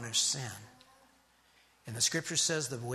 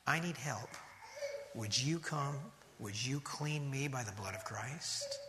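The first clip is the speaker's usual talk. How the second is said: softer, lower, pleading prayer; humble prayer; 3 semitones lower, 7 dB quieter than usual. Pretend. Teaching how to come to Christ, a soft humble plea. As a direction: pray it quietly, asking for help.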